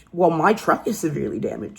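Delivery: mock indignant. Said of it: "she goes".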